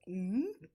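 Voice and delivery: rising "mm-hmm"; mimicked hum. Wife mocking husband's quote from the movie, rising hum. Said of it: "and the quote was".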